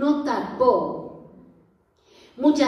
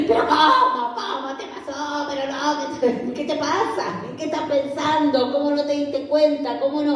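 mock exasperated reproach; scolding; 3 semitones higher than usual. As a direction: tell them off like an impatient boss. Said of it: "no era como yo".

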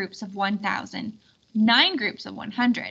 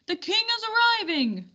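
much higher urgent call; excited yell; 11 semitones higher than usual. Acted. Circumference warning the guests, high excited call. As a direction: alert everyone the king is here. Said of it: "yelled Circumference".

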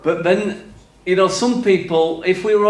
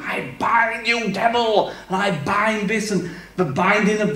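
mock devil-binding prayer. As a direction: imitate someone solemnly binding the devil. Mimicking people who bind the devil.

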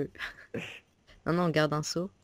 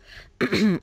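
clears a cracking voice; quick throat clear; 7 semitones higher, 6 dB louder than usual. Real, not acted. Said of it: "j'ai un peu la voix qui déraille". (raclement de gorge)

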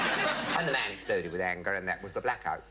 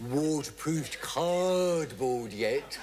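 slow deadpan punchline; 3 semitones higher, 4 dB louder, much slower than usual. Retold or imitated. Sketch punchline drawn out.

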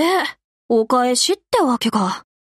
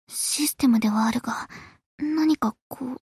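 quiet aside; 3 semitones lower, 5 dB quieter than usual. Acted.

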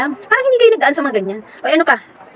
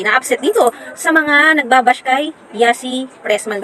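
slow; much slower than usual. Real, not acted.

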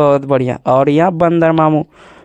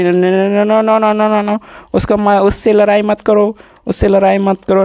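raised-pitch, playful pleading to stop a fight; mock alarm; 5 semitones higher than usual. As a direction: break up a pretend fight, pitched up. Play-acted plea to stop toy fight. (खेल-खेल में घबराकर रोकते हुए)

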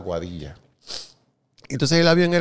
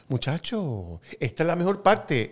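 imitating dad; 6 semitones higher than usual.

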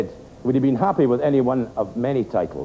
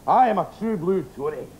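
angry rant; 6 semitones higher than usual. Acted. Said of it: "the man exploded".

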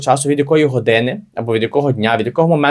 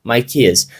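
slow read; much slower than usual. Shown as a demonstration. Teacher reads English example.

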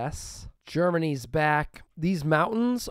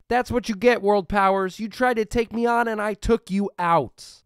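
triumphant gloating; 6 semitones higher, 5 dB louder than usual. Real, not acted. Gloating at defeated world powers.

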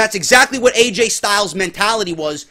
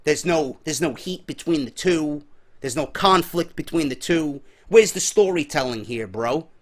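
lower, softer mocking voice of a complaining fan; a lightly mocked critic, dragging it out; mock critic lowering his voice to "bro"; mock whiny critic; 5 semitones lower, 5 dB quieter than usual. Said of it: "some may say".

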